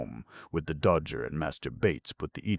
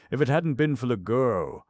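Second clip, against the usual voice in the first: eager and much louder, pitched higher; the old fence seizing on Sykes's words to placate him; 8 semitones higher, 7 dB louder than usual. A narrator's reading. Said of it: "eagerly catching at the word".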